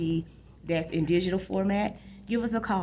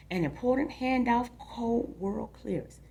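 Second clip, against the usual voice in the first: story narration. A narrator's reading. Reads a novel aloud.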